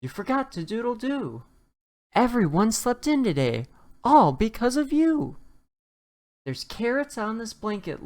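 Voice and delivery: high, loud, indignant hens; chickens scolding. A narrator's reading. Chickens scolding the rooster for oversleeping, high and loud. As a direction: squawk the blame at him like cross hens. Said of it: "the chickens woke him up".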